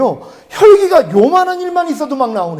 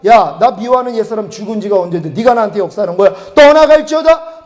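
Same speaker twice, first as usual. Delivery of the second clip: commanding rebuke. Acted. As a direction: drive the spirit out with authority. Rebuking the devil in prayer.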